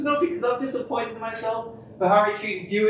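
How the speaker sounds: high imitation of an upset woman; mock tearful partner. Man imitating his crying partner's apology, mock tearful. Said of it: "and then she's crying".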